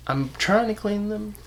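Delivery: muffled nose, tissue stuffed in; tissue up one nostril. Real, not acted. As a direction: speak with a plugged nose. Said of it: "I'm shoving tissue up my nose".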